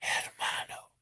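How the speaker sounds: mock-seductive, breathed "hermano" with an airy h; seductive whisper. Shown as a demonstration. Teacher mocking learners who hiss the H, seductive whisper. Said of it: "don't try to be seductive with me".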